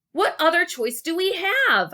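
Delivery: high, loud question; yelling. Acted. Wally answering Gary in fear, loud yell. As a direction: yell it across the river. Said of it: "I yelled".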